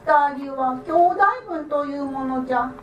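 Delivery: put-on creaky wise old man. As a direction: play a cheeky little old man. The idle man asks.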